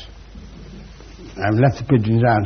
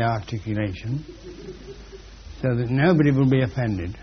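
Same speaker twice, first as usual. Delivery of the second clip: mouth full; 6 dB quieter than usual. Real, not acted. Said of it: "talking with a peppermint in my mouth".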